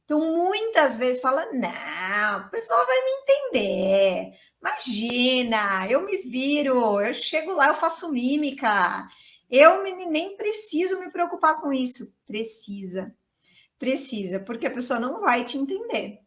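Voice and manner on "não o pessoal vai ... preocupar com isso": dismissive student. Retold or imitated. Student brushing off pronunciation lessons to teacher, dismissive. Acting out an overconfident student's objection.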